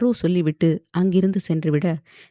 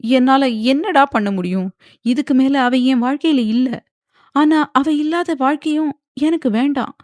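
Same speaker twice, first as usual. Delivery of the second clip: despairing; 6 semitones higher than usual. A narrator's reading. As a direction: pour out his despair. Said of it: "விரக்தியாக கூறினான்". (விரக்தியான குரலில்)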